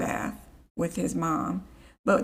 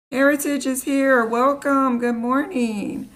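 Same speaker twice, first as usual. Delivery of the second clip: higher, louder welcome to chat; cheery welcome; 6 semitones higher, 5 dB louder than usual. Real, not acted. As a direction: greet a viewer warmly. Greeting a viewer by name.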